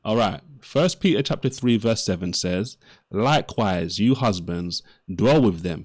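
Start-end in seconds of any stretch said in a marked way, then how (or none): 3.1-5.9 scripture reading. Acted. Reads Bible verse aloud.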